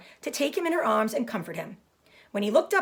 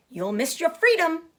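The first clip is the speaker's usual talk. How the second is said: high, louder honk; honking goose; 8 semitones higher, 4 dB louder than usual. Acted. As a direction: honk it after him. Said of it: "honked the goose".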